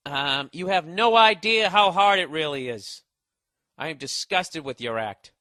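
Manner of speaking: calm, soothing read of an angry email; soothing tones. Retold or imitated. Comic reading an angry fan email in soothing tones. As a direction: read the shouting letter gently, soothingly. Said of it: "I'm gonna read it in soothing tones".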